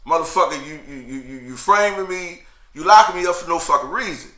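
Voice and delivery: retold angry outburst at the guards; protesting. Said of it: "I'm protesting".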